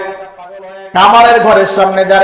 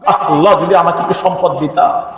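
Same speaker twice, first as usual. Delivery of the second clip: low, subdued sigh of regret to God; regretful; 3 semitones lower, 4 dB quieter than usual. Acted. Blacksmith wishing for a little wealth, mildly regretful. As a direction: wish it softly, with mild regret. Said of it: "আফসোস করতো".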